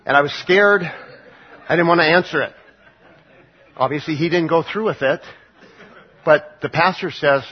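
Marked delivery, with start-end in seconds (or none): 0.1-2.5 laughing while retelling. Retold or imitated. Man retells fear, laughing.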